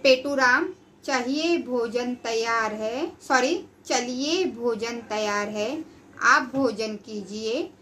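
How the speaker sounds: slow, careful model reading; read aloud for repeating. Shown as a demonstration. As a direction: read it slowly so the class can repeat. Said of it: "सुनो और दोहराओ". (बच्चों के दोहराने के लिए धीमा पाठ)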